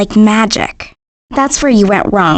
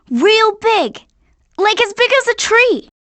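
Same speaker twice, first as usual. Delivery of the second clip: excited; 10 semitones higher than usual. Acted. Kid describes giant TV excitedly.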